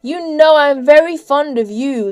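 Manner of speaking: high, loud, ingratiating pleasantness; sweetly persuasive, lifted voice; pleasant. A narrator's reading. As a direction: coax with a show of fondness. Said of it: "His voice sounded so pleasant now".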